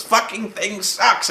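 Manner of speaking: high, drawn-out mock yell; slow, high-pitched pretend rant; retold screaming. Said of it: "where he starts screaming".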